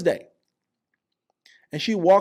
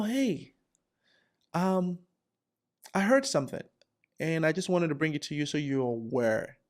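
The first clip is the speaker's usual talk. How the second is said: soft-spoken Lindsay; 6 dB quieter than usual. Acted. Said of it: "Soft-spoken Lindsay".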